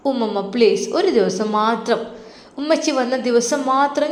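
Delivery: put-on pleading little girl. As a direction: beg sweetly like a small child. Child pleading with grandma.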